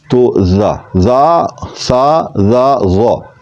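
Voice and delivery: زا thin, ضا thick; light zaa vs heavy zaa. Shown as a demonstration. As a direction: contrast زا and ضا. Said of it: "زا میں آواز کو موٹا نہیں کریں گے".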